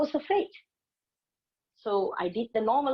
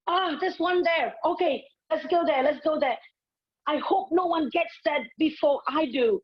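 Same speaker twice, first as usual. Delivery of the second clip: eager hopeful; 6 semitones higher than usual. Retold or imitated. Driver hoping for parking.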